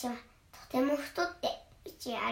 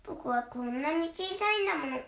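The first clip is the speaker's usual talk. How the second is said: higher, pleading little goat; 4 semitones higher, 3 dB louder than usual. Acted. Little goat begs the troll, higher and pleading. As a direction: beg like a tiny goat. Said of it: "とヤギは言いました".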